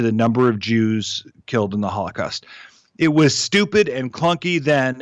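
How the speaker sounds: measured commentary read from the page; scripted political column delivery; newsletter read-aloud. Real, not acted. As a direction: read your written column aloud with pointed emphasis. Reads own newsletter aloud.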